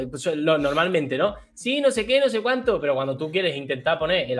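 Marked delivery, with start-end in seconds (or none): 1.5-2.8 high, put-on imitating voice; voz de imitación aguda; imitation voice. Shown as a demonstration. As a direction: squeak it out like mimicking someone. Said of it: "pones la voz bajita".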